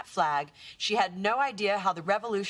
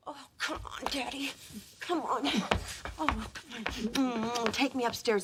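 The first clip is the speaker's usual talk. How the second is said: seductive; 5 dB quieter than usual. Acted. Seductive wife coaxing husband.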